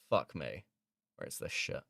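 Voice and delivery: whispered grumble while searching; hushed annoyed whisper to himself; muttered to self. Real, not acted. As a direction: mutter it under your breath.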